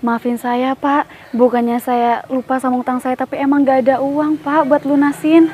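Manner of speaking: loud apology to the angry shopkeeper; loud pleading apology. Acted. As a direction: beg him loudly to understand. Wife apologises to angry creditor.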